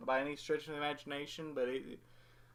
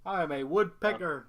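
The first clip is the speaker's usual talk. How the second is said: higher, louder cartoon character voice; 4 semitones higher, 6 dB louder than usual. Shown as a demonstration. Practicing the cartoon voice for co-host, hammed-up impression. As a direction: daft cartoon impression, pushed up and out. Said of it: "I can do Ed's voice".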